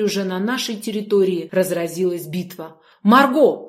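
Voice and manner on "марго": loud, high call across the fight. A narrator's reading. Girl calls to her sister across the battle, loud. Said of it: "окликнула я сестру".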